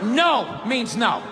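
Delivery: slow, low no means no; firm refusal. Shown as a demonstration. Explaining what a real refusal sounds like, slow and firm. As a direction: state it slowly and seriously. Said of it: "that means no".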